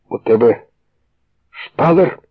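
astonished cry about the gun; surprised shout. A narrator's reading. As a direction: blurt it out. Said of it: "крикнув Філон".

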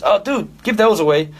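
high put-on American accent; American dude voice, pitched well up. Drummer telling his student to ditch the tickets, in an American accent. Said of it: "That's my American accent".

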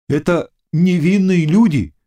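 usual speaking voice

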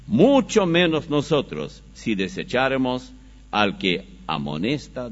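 forceful pulpit reading, phrase by phrase; scripture reading. Acted. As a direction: declaim the passage with measured force.

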